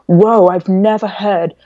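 happily amazed. Retold or imitated. Man at Walgreens hearing her British accent, imitated happy amazement. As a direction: imitate someone delighted and stunned. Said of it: "he was so happy".

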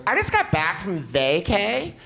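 slow ditzy slang drawl; lazy vapid party girl; valley girl voice. Retold or imitated. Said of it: "she's like".

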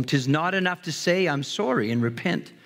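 poem recital. Acted. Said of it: "Listen to this poem".

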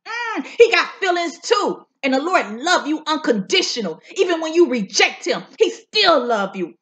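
fervent preaching cadence, rising on key words. Acted. Preacher testifying to the viewers, fervent preaching. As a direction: preach the word to the congregation.

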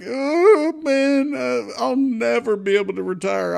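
hammed-up hopeless investor; mock despairing newbie. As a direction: imitate a worried newbie moaning about retirement. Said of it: "they're like".

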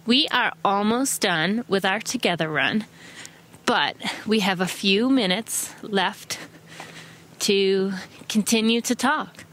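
a light, slowed mock American accent, barely off her own English; a hint of American in an impromptu accent. Showing runners her impromptu American accent, lightly put-on American. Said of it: "I can do a pretty good American accent".

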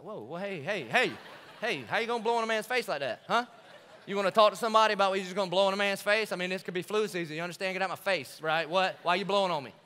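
comic outrage at a blown face; mock indignant. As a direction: play offended at being blown on.

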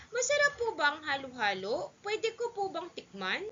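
put-on high, eager child's question; young boy. Son asking father to taste halo-halo, childlike. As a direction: ask politely in a high childlike voice.

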